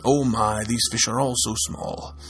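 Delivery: steady storyteller voice reading a folktale; story narration. A narrator's reading. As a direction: tell it like a fireside folktale. Reads folktale to listeners.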